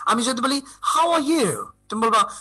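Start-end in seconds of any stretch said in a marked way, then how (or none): 0.6-1.7 slow, drawn-out, higher "How are you"; English intonation demo. Shown as a demonstration. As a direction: stretch "How are you" into a tune, falling at the end. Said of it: "আমি যে English যে সুরে বলবো". ("How are you" টেনে সুর করে বলা)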